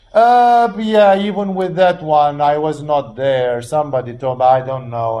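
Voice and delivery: a hint of a skeptic brushing it off; lightly voiced hesitant doubter. Preacher voicing a doubter who waves off Lazarus, mild dismissive tone.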